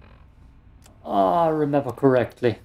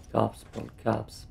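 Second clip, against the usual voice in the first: creaky vocal fry warmup; 9 dB quieter than usual. Acted. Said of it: "talking in a Volcofra voice".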